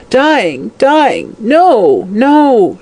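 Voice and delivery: high, panicked cries; dying hag's cry of terror; terrified wail. A narrator's reading. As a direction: wail each word in rising dread. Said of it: "she wailed".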